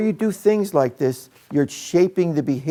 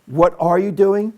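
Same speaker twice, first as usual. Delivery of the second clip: "What are you doing?" asked sharp and a touch higher; confronting question; 5 semitones higher, 4 dB louder than usual. Shown as a demonstration. Teacher confronting an off-task student, sharper. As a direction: challenge the student with it. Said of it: "If I ask ... Courtney".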